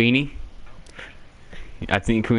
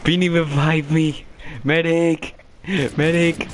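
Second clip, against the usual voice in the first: man down shout; 7 semitones higher, slower than usual. Real, not acted. Downed, calling for medic.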